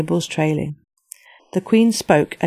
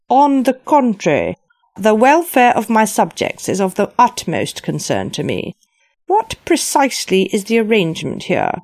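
regal queen voice; 4 semitones higher than usual. Acted. Queen speaking.

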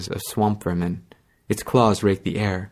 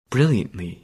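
wry echo. Acted. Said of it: "You did brilliantly".

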